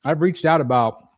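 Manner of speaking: chewing ice while talking; ice in mouth. Real, not acted. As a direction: talk around a mouthful of ice. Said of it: "sorry, I'm chewing my ice".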